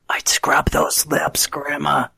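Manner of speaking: slow hushed tease; teasing whisper. Real, not acted. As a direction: whisper a joke to Grandma. Teasing aside about the kiss.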